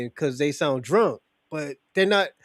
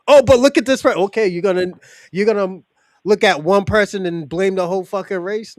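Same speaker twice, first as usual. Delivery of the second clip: louder, worked-up complaint; heated protest; 5 dB louder than usual. Real, not acted. Arguing with Dorsey that one person doesn't stand for all, heated. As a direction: push back hard on blaming everyone. Arguing against blaming race.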